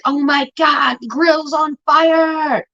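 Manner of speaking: calling out that the grill's on fire; alarmed shout. Retold or imitated. Yelling to family about the burning grill, alarmed shout.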